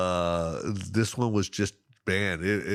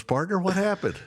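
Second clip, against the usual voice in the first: mock guide voice, pitched much higher; imitating the guide; 11 semitones higher than usual. Guide teasing the angler after the missed fish, mock high voice. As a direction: ham up the guide's teasing question. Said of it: "He goes".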